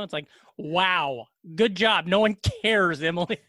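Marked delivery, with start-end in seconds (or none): 0.6-1.3 unimpressed, dismissive "wow"; a mock congratulation that means nobody cares; sarcastic wow. Shown as a demonstration. Telling Emily no one cares, sarcastic. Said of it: "it has so many different meanings". 1.5-3.4 dismissive mock congratulation; sarcastic praise. Shown as a demonstration. Telling Emily no one cares, sarcastic. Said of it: "it has so many different meanings".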